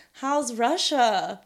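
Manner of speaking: slow, drawn-out loaded question. Retold or imitated. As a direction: ask it as if something's going on there. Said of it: "with that exact tone".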